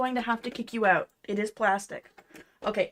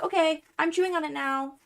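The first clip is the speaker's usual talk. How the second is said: cat's voice; 6 semitones higher than usual. Retold or imitated. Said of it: "And he's like".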